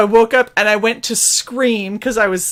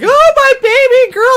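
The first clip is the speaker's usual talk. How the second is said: high, louder gushing dad voice; doting dad; 5 dB louder than usual. Retold or imitated. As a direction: gush like a worried father over his baby. Dad's emotional reaction retold.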